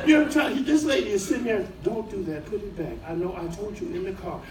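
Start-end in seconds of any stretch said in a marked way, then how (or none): 1.8-4.4 softer, restrained mock warning; parent talking first. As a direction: quietly warn the child off. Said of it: "parents who try to talk first".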